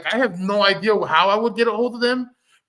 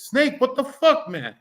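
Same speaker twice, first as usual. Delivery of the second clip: exasperated lady; 6 semitones higher than usual. Retold or imitated. Lady scolding the snake that bit her, high indignant mock voice. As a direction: pitch it up and play the betrayed healer. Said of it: "the lady looks at the snake and says".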